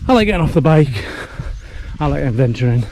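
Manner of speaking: out of breath. Real, not acted. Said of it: "Sorry if I'm a bit out of breath".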